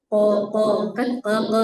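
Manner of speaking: Ko pushed back into the throat, a thick qaf; throaty ko. Shown as a demonstration. Teacher showing the overdone throaty qaf. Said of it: "elak-elak ya".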